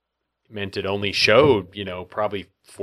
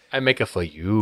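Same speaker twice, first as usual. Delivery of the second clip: lightly voiced Italian waiter; light Italian accent. Cohost quoting the waiter, light Italian accent. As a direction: offer it like a fawning Italian cook. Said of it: "Italian accent".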